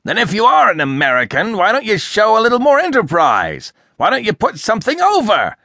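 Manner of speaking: high, loud, indignant harangue; furious tirade. A narrator's reading. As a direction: rant in a sudden burst of fury. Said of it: "burst of fury".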